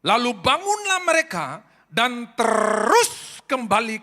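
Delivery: loud, high, slow proclaimed verse; scripture reading. Acted. Preacher reading Luke aloud to the congregation, loud and slow. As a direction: declaim the verse slowly to the church. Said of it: "ayat ketiga puluh tiga dari Lukas".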